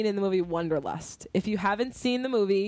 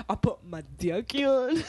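Paul Rudd line; 2 semitones higher than usual. Retold or imitated. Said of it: "the way he says dick".

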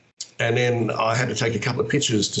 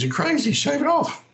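mock wife voice. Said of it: "She goes".

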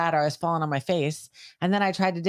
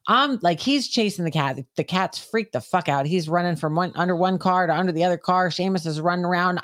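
ordinary delivery

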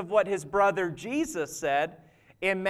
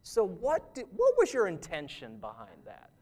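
gentle questioning; 3 semitones lower, 5 dB quieter than usual. Retold or imitated. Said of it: "And he'll be like".

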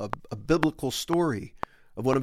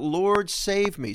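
higher, slow pleading Lord save me; a drawn-out, understated plea; mild cry for help; 6 semitones higher, slower than usual. Acted. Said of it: "he cried out".

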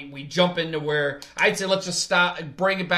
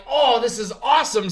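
higher-pitched, pleased exclamation; retold delight; 6 semitones higher, 3 dB louder than usual. Telling how they sat up in their seat, retold delight. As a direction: reenact perking up with a smile. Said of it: "edge of my seat again and smile".

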